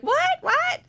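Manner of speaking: squeaky startled what; baffled shout. Retold or imitated. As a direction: yell it like you can't believe your ears. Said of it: "They're like".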